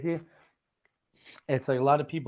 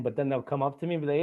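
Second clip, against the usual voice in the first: ordinary delivery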